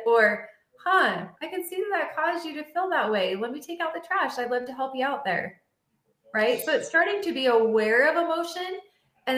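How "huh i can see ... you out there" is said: higher, gentle and accommodating; understanding. Acted. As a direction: soothe her and offer help. Acted understanding reply to wife.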